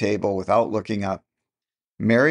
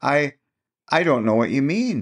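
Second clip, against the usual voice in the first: unsteadily; 5 semitones higher than usual. A narrator's reading. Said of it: "she said unsteadily".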